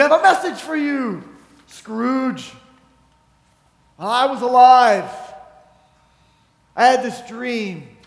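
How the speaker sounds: lightly acted ghostly pronouncement, trailing off; a hint of a solemn ghost; ghost of Marley. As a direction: intone it in fragments with long pauses. Acts out Marley's ghost addressing Scrooge.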